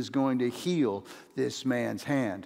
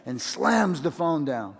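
ordinary delivery

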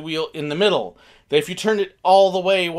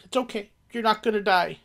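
calming reassurance; 3 semitones higher than usual. Retold or imitated. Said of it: "Had to calm my wife and daughter".

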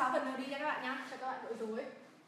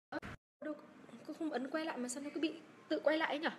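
ordinary talk, nothing marked

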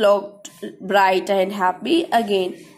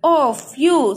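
lovingly; much slower than usual. Acted. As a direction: soothe the little train gently.

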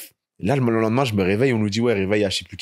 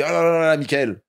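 gabbled, higher-pitched imitation of a local; imitated rapid speech; 5 semitones higher than usual. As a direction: mimic a rapid, unintelligible greeting. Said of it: "C'était rapide".

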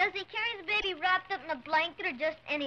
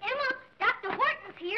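higher-pitched excited call; 6 semitones higher than usual. Acted. Boy announces the doctor's arrival to Emma, calling out. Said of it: "Don't shout".

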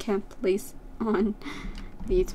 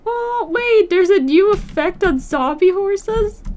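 much higher, louder startled voice; genuinely taken aback; disbelieving high exclamation; shocked surprise; 8 semitones higher, 7 dB louder than usual. Real, not acted. Surprised by zombie horse.

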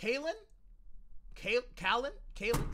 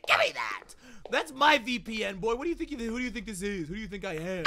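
mock possessive neighbour. Imagined neighbour stealing VPN.

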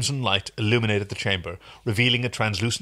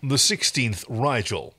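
slow, measured anchorman baritone; Walter Cronkite voice. Acted. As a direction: read it like an old news anchor. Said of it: "instruction earlier on was baritone ... Walter Cronkite".

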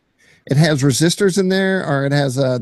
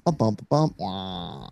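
mock tumble noises; 7 semitones lower, 7 dB quieter, slower than usual. Imitating a tumble in the video.

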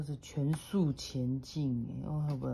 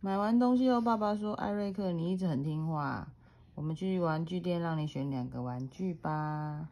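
put-on reading to a toddler. A narrator's reading. Mother reads picture book aloud.

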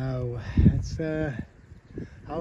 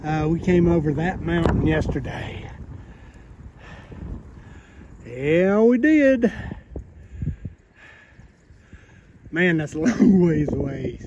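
shouting over wind; 7 dB louder than usual. Real, not acted. Talking loudly over the wind.

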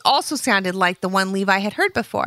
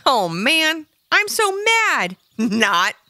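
higher, slow fake pout then a laugh; joking mock anger; 8 semitones higher, much slower than usual. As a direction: pretend to be mad, then giggle. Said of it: "laughed Eric".

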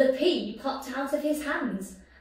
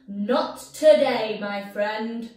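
heroic retort; 7 dB louder than usual. Acted. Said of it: "said Sue Potato".

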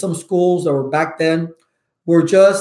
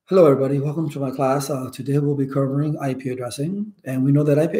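lower, droning dull-teacher voice; boring lecturer; 4 semitones lower, 3 dB quieter than usual. Retold or imitated. Dull instructor lecturing tired night-shift students, lightly droning. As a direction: drone on like an instructor putting the class to sleep. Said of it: "you're gonna talk like this".

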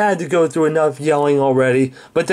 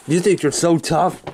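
restrained challenge at usual pitch; confrontational. Acted. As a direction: square up to him, holding back. Staged quarrel, challenges Hellbent.

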